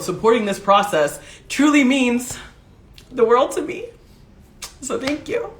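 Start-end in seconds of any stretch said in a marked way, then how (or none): 1.5-5.5 grateful, fading on the thanks; choked up. Real, not acted. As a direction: thank them while holding back tears. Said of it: "I'm already crying".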